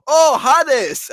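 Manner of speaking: loud, high cry of sudden understanding; mock burst of realization; sudden recognition. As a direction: exclaim it as the penny drops. Acts out Roberto suddenly understanding.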